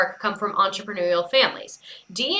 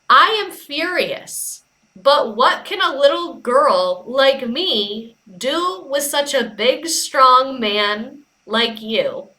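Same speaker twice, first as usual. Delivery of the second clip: mock little girl; 2 semitones higher, slower than usual. Reading book's little girl line.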